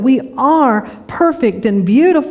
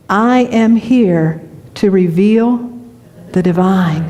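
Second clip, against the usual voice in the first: slow affirmation; slower than usual. Pretend. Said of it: "opportunity to say".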